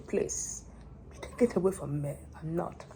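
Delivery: soft, hushed plea; quiet prayer. Real, not acted. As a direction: pray under the breath.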